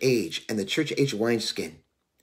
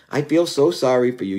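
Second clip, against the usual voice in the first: pitying. Retold or imitated. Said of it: "I expected".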